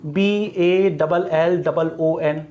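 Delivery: slow, letter-by-letter dictation; measured classroom spelling; spelled out slowly. Shown as a demonstration. Spelling out word for students.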